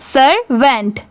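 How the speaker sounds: "सर्वेंट" in two clear parts, सर then वेंट; syllables joined up. Shown as a demonstration. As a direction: sound out "सर्वेंट" for learners. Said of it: "पूरा मिला देंगे".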